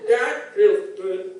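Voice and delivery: slow, intimate whisper-like line. Acted. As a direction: breathe it low and slow. Acted partner's pillow talk.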